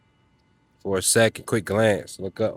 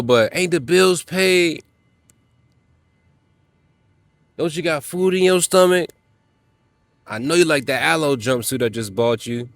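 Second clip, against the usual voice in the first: put-on defensive boyfriend; 6 semitones higher, 3 dB louder than usual. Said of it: "And then you go".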